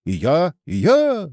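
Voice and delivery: eager high-pitched mild shout; narrated crowd cry, not full volume; many calling out. A narrator's reading. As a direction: chime in as volunteers, pitch up. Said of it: "закричали многие".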